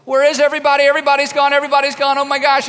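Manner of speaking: loud, high panicked cry; hammed-up wail that everyone has left; mock alarm. Church panicking at empty June.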